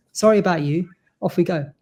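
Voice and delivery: put-on a barely-there Scouse accent, admittedly failed; bad Scouse accent. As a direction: try a Scouse accent and mostly miss it. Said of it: "I can't do a Scouse accent to save my life".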